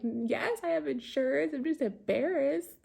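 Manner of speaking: high-pitched embarrassed insistence; retold emotional protest. Driver asked about insurance, emotional embarrassed protest. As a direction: rise into a flustered, defensive reply. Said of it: "getting emotional".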